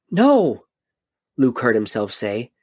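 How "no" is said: loud high cry of protest; Luke's cry. Acted. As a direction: cry out in dismay. Luke protests Ben leaving.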